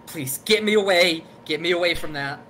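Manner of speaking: high, loud panicked plea. Acted. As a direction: beg to be pulled away, in a panic. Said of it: "in a very panicked voice".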